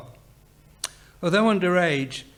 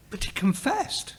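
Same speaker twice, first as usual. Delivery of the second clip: higher-pitched puzzled question; 6 semitones higher than usual. A narrator's reading. Sydney asks about the confession, puzzled. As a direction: ask it, mildly baffled.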